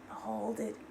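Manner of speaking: drawn-out exhale words; slow letting-go; slow release. Shown as a demonstration. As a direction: let it go slowly. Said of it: "breath release".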